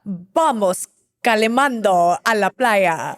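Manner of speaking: slow, careful imitation of Spanish; learner's slow copy of a Spanish accent; copied Latino Spanish. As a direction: parrot the Spanish phrase back slowly. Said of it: "Tallulah is a savant at copying".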